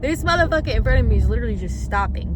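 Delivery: loud burst of road annoyance; real yelling. Real, not acted. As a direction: yell about the driver ahead. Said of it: "Not me screaming, sorry. Don't mean to yell".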